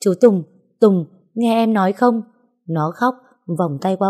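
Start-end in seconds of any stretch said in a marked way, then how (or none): 0.0-2.2 frightened calling. Acted. Woman calling out to the man in his fit, frightened. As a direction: call him back to his senses in fear.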